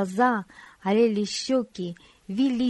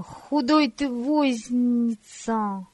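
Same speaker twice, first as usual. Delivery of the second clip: angry; 3 semitones higher, much slower than usual. Acted. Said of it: "зло закричал Бориска".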